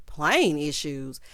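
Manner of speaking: slow, stressed "Plane issues?" in disbelief; disbelieving echo. Real, not acted. Host questioning the man's excuse, slow and incredulous. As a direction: repeat it like it makes no sense.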